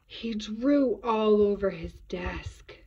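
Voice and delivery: slow, drawn-out pretend horror; storyteller's hammed-up dismay; mock shock. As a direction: reveal it slowly as if scandalised. Reader mock-shocked at David's misdeed.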